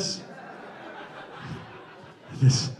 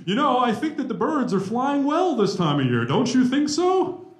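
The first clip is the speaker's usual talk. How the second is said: overly proper talker. Acted. Speaker mimicking polite talk to the college president, overly proper. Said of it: "I'm not gonna talk like that".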